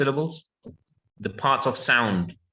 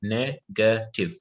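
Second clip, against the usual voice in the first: slow syllable demo; 2 semitones lower, much slower than usual. Shown as a demonstration. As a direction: say Negative slowly, each syllable apart. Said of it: "Three syllables".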